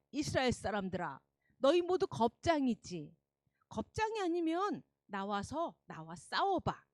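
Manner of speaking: gloating giant taunting; mustache twirling villain. Acted. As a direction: sneer it out like a bully. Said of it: "의기양양해서 이스라엘 사람들에게 이렇게 말해요".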